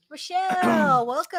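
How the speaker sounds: loud, high, drawn-out greeting; calling out welcome. Real, not acted. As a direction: hail a late arrival with a big hello.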